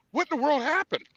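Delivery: high, shocked cry of disbelief; retold disbelief. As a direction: gasp it out like you just saw the losses. Retold shock at losing money.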